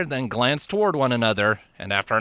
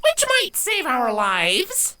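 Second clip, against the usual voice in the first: retort; slower than usual. Acted. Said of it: "Avia retorted".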